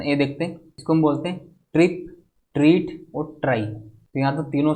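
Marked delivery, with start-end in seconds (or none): 1.7-2.1 ट्रिप with a short I vowel. Shown as a demonstration. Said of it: "यहाँ पर छोटी ई का sound". 2.5-3.1 ट्रीट with a long EE vowel. Shown as a demonstration. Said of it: "यहाँ पर बड़ी ई का sound".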